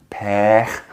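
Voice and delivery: pech said with the mouth opened wide; French pech. Shown as a demonstration. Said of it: "where I told you about pech".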